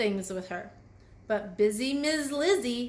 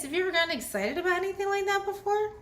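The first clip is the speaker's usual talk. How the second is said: excited; 9 semitones higher, much faster than usual. Acted. Excited question to kids.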